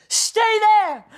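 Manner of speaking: high loud call. Acted. Narcissus calling as he runs, high loud yell. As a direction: yell it while running. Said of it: "calling as he ran".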